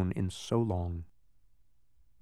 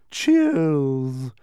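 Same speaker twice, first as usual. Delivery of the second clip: drawn-out cheer; 5 dB louder than usual. A narrator's reading. Undersecretary of Understanding toasts the victory, drawn-out cheer. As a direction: hail the victory with one long word.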